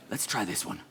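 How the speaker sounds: soft, understated suggestion; imitacja Tony'ego. Retold or imitated. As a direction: say it very quietly and casually. Retold Tony, unbothered.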